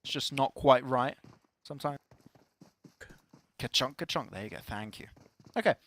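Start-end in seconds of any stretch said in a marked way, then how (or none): 3.6-4.3 nail gun noise. Shown as a demonstration. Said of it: "it's the way you say it".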